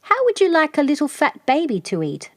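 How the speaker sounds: the snake tempting the wolf with a meal; sly snake. A narrator's reading. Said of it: "asked Hoodoo".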